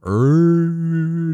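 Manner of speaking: loud drawn-out effort noise; imitated wind-up growl. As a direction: growl as if winding up a punch. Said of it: "she just went like this".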